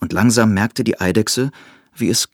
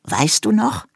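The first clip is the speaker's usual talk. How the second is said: hohe, verschmitzte Eidechsenstimme; fröhlich erinnernd fragen; Eidechse erinnert sich. A narrator's reading. Eidechse erinnert den Hasen. (die Eidechse erinnert den Hasen ans Lachen, hoch und verschmitzt)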